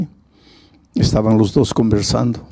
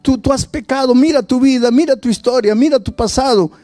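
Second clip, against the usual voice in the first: much higher, taunting accuser; a mocking devil voice, much higher; the devil accusing; 11 semitones higher than usual. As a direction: sneer like the devil listing your sins. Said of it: "el diablo viene y te dice".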